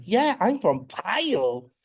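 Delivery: high, slow, cheerfully clueless; oblivious. Retold or imitated. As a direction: say it proudly, totally oblivious. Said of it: "I was just like".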